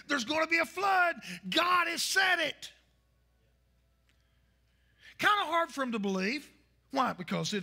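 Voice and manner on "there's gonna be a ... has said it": raised, shouted warning to the crowd; Noah's warning cry. Retold or imitated. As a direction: hammer the warning home, slowing on the last words. Noah warning the scoffers.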